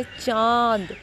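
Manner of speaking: चांद drawn out slowly, strongly through the nose; nasalised vowel. Shown as a demonstration. Teacher shows stronger nasal sound of anunasik, slow nasal चांद. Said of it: "थोड़ी उससे ज़्यादा होती है".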